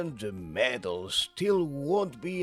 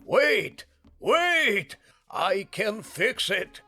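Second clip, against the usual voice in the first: very high, loud plea; urgent calling back; 13 semitones higher, 6 dB louder, slower than usual. Acted. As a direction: shout to stop a customer leaving. Calls back a departing customer.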